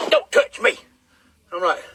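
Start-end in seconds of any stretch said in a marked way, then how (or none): 0.1-0.8 much higher imitation of a touchy wife; high, put-on rebuff; irritated wife. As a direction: imitate her snapping in a high voice. Imitating angry wife rebuffing him.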